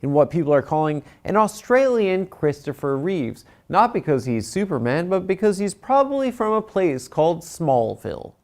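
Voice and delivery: projected host read of a joke. Acted. Host retrying after a note on soft talking, projected read. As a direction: speak up and deliver the monologue joke. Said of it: "Less soft talking also".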